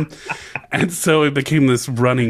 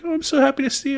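imitating mom; much faster than usual. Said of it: "She'd be like".

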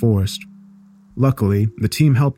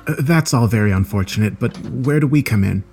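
politely impatient; 2 semitones higher than usual. Acted. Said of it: "David asked impatiently".

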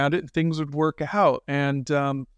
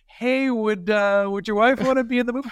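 excited rush; 7 semitones higher than usual. Retold or imitated. Directors burst in excitedly.

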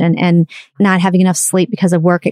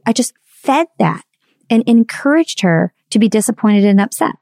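normal talking voice

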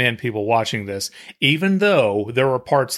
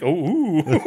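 laughing; 4 semitones higher than usual. Retold or imitated.

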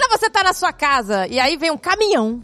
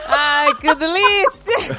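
mock moaning; 3 semitones higher, much slower than usual. Mock reality show steamy scene.

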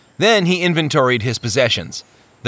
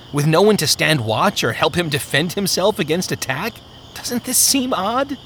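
nervous Faintheart; 4 semitones higher than usual. Acted. Faintheart doubts the sleeping pilgrim, lightly voiced and uneasy. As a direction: hold your brother back with mounting unease.

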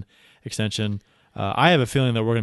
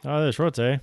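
mock Canadian accent; 3 semitones higher than usual. Echoing the shorts joke in a light Canadian accent. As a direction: toss off a jokey Canadian eh. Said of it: "with that accent".

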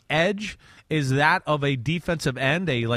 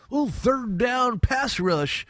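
mocking doubter; 8 semitones higher, much slower than usual. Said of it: "teams that are gonna try to, like, say that".

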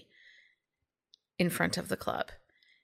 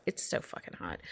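breathy whisper; 12 semitones lower, 9 dB quieter than usual. Real, not acted. Gushing over a sexy scene.

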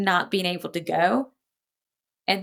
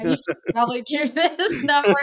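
mock officials; 6 semitones higher than usual. Officials voiced mocking her attempt.

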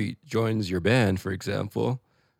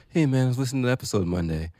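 lightly put-on, higher, quick voice; hurried, higher-pitched mock fan voice; put-on listener voice; 4 semitones higher, faster than usual. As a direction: quote a listener in a slightly silly quick voice. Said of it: "I don't know why I use that voice".

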